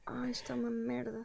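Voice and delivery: whispered, exasperated aside; whispering. Real, not acted. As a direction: hiss it under your breath. Muttering at a failed eyeliner.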